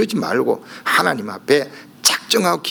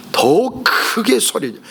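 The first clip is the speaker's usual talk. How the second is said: drawn-out whisper; 7 semitones higher, much slower than usual. Acted. Preacher emphasizes the louder cry.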